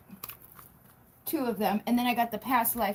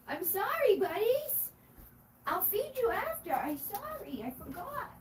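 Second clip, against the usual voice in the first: high sing-song pet voice; talking to pets; 11 semitones higher, 5 dB quieter than usual. Real, not acted. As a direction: coo an apology to the dogs. Apologizing to her dogs.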